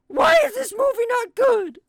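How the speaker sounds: very high, full-volume mock rant; Doug Walker screaming. Imitating a YouTube critic on camera, screamed mock outrage. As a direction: shriek it like an outraged reviewer. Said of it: "he started screaming on camera going".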